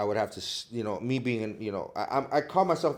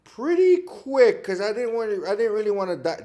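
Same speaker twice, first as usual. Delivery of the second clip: animated protest; 9 semitones higher, 5 dB louder than usual. Real, not acted. Protesting his character's death.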